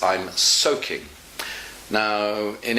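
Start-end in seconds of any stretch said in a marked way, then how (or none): 0.0-1.1 "soaking" starting with a hissed English s; English s at the front of "soaking", said slowly; correct S. Shown as a demonstration. Teacher explaining what the German means, "soaking" with s. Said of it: "what he's saying is".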